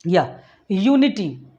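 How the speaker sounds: यूनिटी drawn out slowly so the य sound stands out; slow यूनिटी right down for the ear; slow listening demo. Shown as a demonstration. Teacher repeats यूनिटी slowly so students hear the य sound. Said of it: "य फिर से सुनना है".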